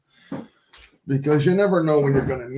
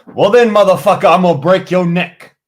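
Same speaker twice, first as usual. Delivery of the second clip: retold threat; 7 semitones higher, 6 dB louder than usual. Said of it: "I go".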